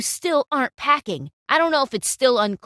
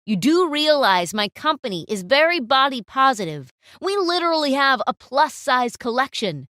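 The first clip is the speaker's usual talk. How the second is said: stern reprimand; 4 dB louder than usual. Acted. Client reprimands photographer.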